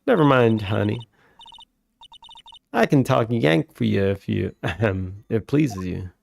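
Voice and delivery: lightly voiced Southern country woman, scolding; Southern photographer. Lotta reassures Maya.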